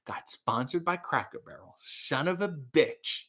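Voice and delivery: whispered envious grumble; jealous whisper. Retold or imitated. Streamer recalling jealousy over a sponsorship, whispered. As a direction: hiss it under your breath in envy. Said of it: "I was so jealous".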